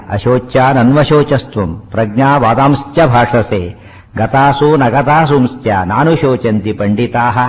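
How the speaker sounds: slow, measured Sanskrit recitation; verse recitation. Shown as a demonstration. Teacher quoting Krishna's first words to listeners, slow recitation. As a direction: draw out each syllable of the verse.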